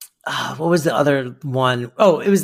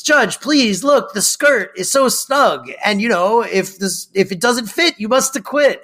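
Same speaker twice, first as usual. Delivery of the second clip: mock pleading lawyer; 5 semitones higher than usual.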